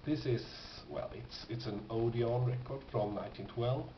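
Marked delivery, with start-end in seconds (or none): none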